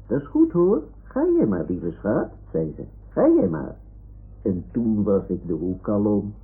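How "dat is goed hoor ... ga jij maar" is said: grandmother. Retold or imitated. Grandma voiced in a story.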